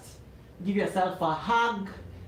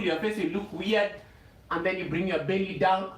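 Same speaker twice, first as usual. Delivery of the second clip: usual speaking voice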